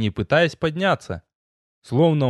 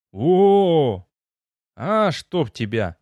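losing patience; 3 semitones higher, much slower than usual. A narrator's reading. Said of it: "Не выдержал я".

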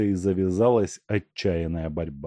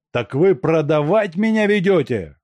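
louder, shocked outcry of a betrayed man; 8 semitones higher, 6 dB louder than usual. A narrator's reading. Makarka realizes he is being sold, crying out. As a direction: cry out at the betrayal. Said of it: "вскричал Макарка".

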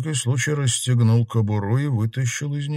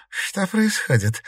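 tense; 11 semitones higher, slower than usual. A narrator's reading. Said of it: "напряглась Щергина".

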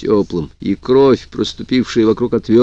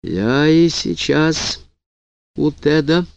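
suspiciously even; 4 semitones higher, much slower than usual. A narrator's reading. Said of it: "голос её стал подозрительно ровным".

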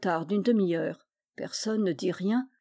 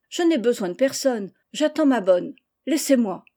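louder, insistent brush-off; irritated dismissal; 3 semitones higher, 4 dB louder than usual. Acted. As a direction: send the servant away impatiently. Girl sends the servant away. (ton agacé, pour congédier)

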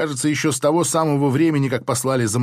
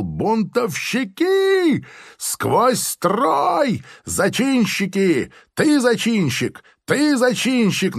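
high, slow shrieking rage of a furious major; визгливый крик майора; 10 semitones higher, much slower than usual. A narrator's reading. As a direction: shriek the accusations, stretching each word. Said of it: "как он визгливо кричал". (визгливо кричит, растягивая слова)

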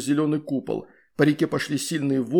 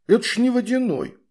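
gasping surprise; 8 semitones higher than usual. A narrator's reading. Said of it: "охнул Огус".

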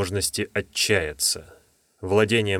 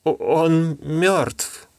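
tearful; 7 semitones higher, much slower than usual. Acted. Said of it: "полный слёз глаз".

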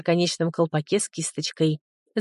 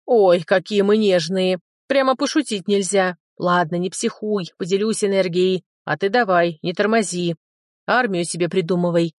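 lightly voiced teasing dragon; playful, mocking little creature; laughing dragon. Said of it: "засмеялся дракон". (насмешливый голос дракончика)

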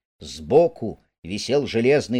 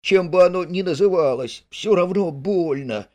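higher, tongue-tied from pain; slurred with pain; 7 semitones higher, 4 dB louder than usual. Acted. Mole, in pain, brushing off Rat's search, slurring. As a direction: stumble through the words, hurting. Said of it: "заплетающимся от боли языком".

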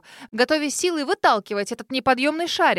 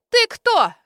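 much higher and louder, imperious; demanding question; 11 semitones higher, 8 dB louder than usual. Acted. Stout lady demands who the girl is, imperious. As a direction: bark it down at an inferior. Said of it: "требовательно спросила дамочка".

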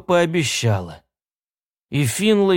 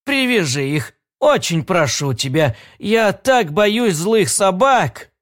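put-on sweet old lady; 4 semitones higher than usual. Old woman begs him.

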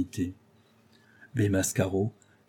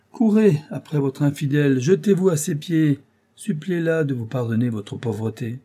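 raised, forceful mocking exhortation; lashing irony; 5 semitones higher, 4 dB louder than usual. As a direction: sarcastically urge him on, starting high and easing down. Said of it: "Sous le fouet de l'ironie".

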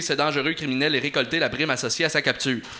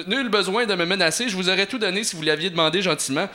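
a higher, mildly whiny plea; whimpering plea; 4 semitones higher, faster than usual. Acted. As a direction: beg weakly, a touch of whimper. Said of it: "supplia le registraire en pleurnichant".

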